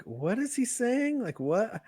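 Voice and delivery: imagine a mother who just doesn't get it; puzzled mom. Pretend. Mom watching the comedy clip, lightly baffled. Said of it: "can you imagine mom watching that".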